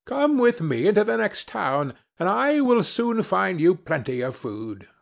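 lightly acted sparrow making an offer; kindly offering sparrow.

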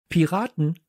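high-pitched proud call. A narrator's reading. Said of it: "rief ich". (mit hoher Stimme gerufen)

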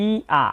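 "ই আ" as i gliding into long a; ya glide demonstration. Shown as a demonstration. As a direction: sound out "ই" then open "আ". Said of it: "উচ্চারণ হচ্ছে ই অ".

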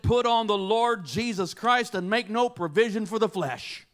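loud, declaimed verse building in force; forceful scripture reading. Retold or imitated. Augustine reading Paul's epistle at random, forceful declamation. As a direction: proclaim the verse, rising to full voice.

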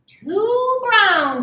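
high, loud, drawn-out squawk; squawking rooster. A narrator's reading. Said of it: "squawked the rooster".

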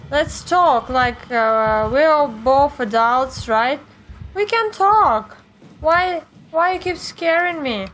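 high, tense half-joking plea, stretching words out; scared pleading. Real, not acted. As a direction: beg the monster to just talk. Pleading with scary game enemy.

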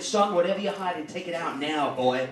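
a hint of a gruff Southern cop, dropping low at the end. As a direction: lightly voice the cop ordering him. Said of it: "He said".

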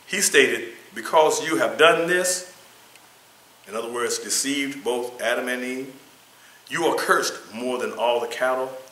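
emphatic, projected scripture and lesson reading; reading aloud. Acted. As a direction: read it out firmly, phrase by phrase.

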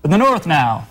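mock northern dialect; put-on northern regional accent. Shown as a demonstration. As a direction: imitate how they talk up north. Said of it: "farther to the north and it's like".

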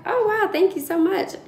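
high, grateful thrill; retold excitement. New nurse thanking the recruiter, excited. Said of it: "I was so excited on the phone".

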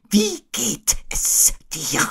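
high, slow owl voice; Eule. A narrator's reading. Owl greeting friend Christopher Robin, high and drawn out. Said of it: "zu ihrem Freund Christopher Robin zu sagen".

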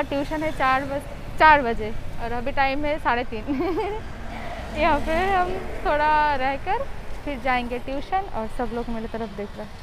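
speaking behind cloth mask; muffled through fabric covering; through a face mask. Real, not acted. Seen 4: Checked cloth mask covers mouth and nose throughout; references unmasked.

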